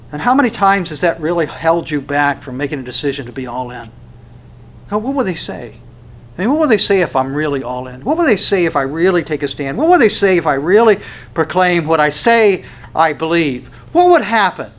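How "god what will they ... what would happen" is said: worried what-ifs. Acted. Voicing anxious what-if questions.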